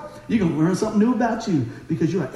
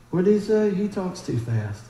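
puzzled slow talkers; 3 dB quieter than usual. Retold or imitated. People baffled by his fast talk, slow mock complaint. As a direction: imitate a listener who can't keep up. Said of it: "some people and they go".

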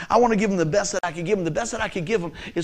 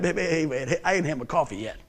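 imitated sleepy coworker; 3 semitones lower, 5 dB quieter than usual. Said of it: "the guys at work, sometimes they be like".

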